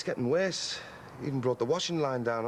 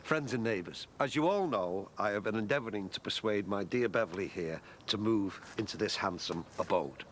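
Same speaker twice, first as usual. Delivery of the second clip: mock-formal speech; 5 semitones lower, 3 dB quieter than usual.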